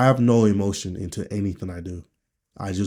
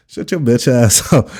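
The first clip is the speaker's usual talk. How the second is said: laughing mock yell; 3 semitones higher, 9 dB louder than usual. Acted retort, laughing mid-line.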